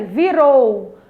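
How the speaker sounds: "Virou" projected, with ROU held; spoken out loud. Shown as a demonstration. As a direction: say "Virou" out for the class, last syllable strong. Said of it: "Fale bem alto aí". ("Virou" bem projetado, com "rou" forte)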